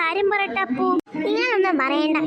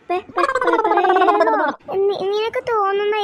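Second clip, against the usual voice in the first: scared stutter; 3 semitones higher, 4 dB louder than usual. Acted. Kids hear there may be a ghost.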